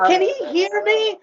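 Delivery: very high, slow, overly careful question. Retold or imitated. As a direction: talk to him as if he can't hear. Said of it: "And she's like".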